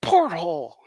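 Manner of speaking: jokey curse; mock swearing. Shown as a demonstration. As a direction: say it like a swear word. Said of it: "it sounds like you're swearing".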